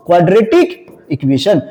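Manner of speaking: "क्वाड्रेटिक", pause, "इक्वेशन", drawn out slowly; slow repeat. Shown as a demonstration. Teacher repeats a new term for class, slowly and separately.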